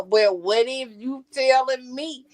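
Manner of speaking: lightly voiced girly man, slowed; a hint of a girly voice; man doing a woman's voice. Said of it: "when he do the girl voice".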